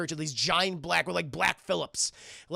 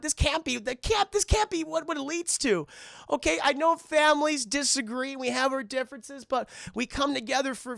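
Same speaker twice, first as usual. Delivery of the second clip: higher-pitched earnest apology; hammed-up heartfelt speech, not really crying; mock tearful plea; 5 semitones higher than usual. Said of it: "Max starts crying. He starts crying as he's saying all these things".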